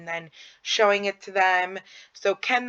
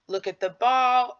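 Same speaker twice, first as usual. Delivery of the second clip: put-on higher, sing-song voice to a child; playful parent voice; talking to a child; 5 semitones higher than usual. Shown as a demonstration. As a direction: coax the child to look. Playing with child, directing gaze.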